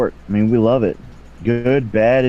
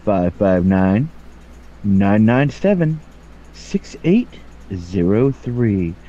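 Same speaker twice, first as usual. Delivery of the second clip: lightly put-on sultry late-night read; sexy bedtime voice; 3 semitones lower than usual. Shown as a demonstration. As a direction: purr the numbers like a lazy bedtime voice. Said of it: "This is my sexy bedtime voice".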